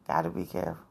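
soft unvoiced whisper of a warning. Real, not acted. Vlogger warns viewers about dating sites in a whisper. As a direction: breathe the warning out with no voice.

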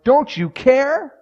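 very high, slow, stunned plea; incredulous cry. Acted. Disciples finding Jesus asleep, stunned high cry. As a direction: let it break up high in disbelief.

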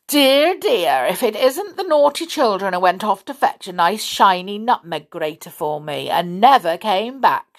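put-on tut-tut at naughty children; sly old witch voice.

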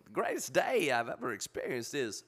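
halting celebrity impersonation with a sinking punchline; Christopher Walken. Shown as a demonstration. Explaining how the impression works, pitch falling onto the point. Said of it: "he starts off high".

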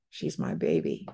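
a mother's whispered vow. Retold or imitated. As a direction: breathe it out as a whisper. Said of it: "I went in my heart, I said".

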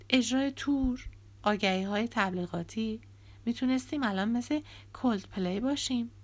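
mild heated complaint; Ravi, aggrieved. Acted. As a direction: list lost chances with bitterness. Ravi's heated lament.

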